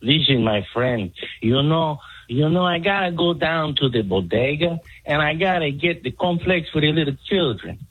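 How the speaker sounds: put-on Mexican accent. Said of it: "your Mexican impersonation".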